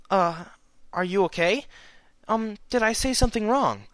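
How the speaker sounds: gentle pony voice; gentle young mare. A narrator's reading. Twilight asks cautiously.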